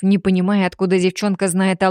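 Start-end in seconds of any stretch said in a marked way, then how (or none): none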